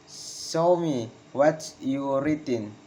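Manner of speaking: slow, spaced words, "written" falling; slow falling intonation. Shown as a demonstration. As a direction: break the request up for learners. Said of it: "Failing intonation in comments".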